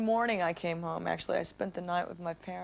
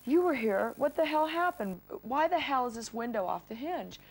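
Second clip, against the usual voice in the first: retold upset demand, pitched up; really upset; 5 semitones higher than usual. Telling Chris off about the broken window, upset. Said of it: "I was really upset".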